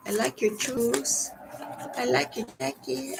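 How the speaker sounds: light imitation of a comic catchphrase; Cheech Marin. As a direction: tease like a stoner comedy line. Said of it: "Cheech Marin movie".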